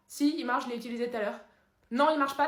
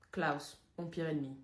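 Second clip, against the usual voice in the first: dramatic villain reveal; 9 semitones lower, 9 dB quieter than usual. Acted. Dramatic, soft slow reveal.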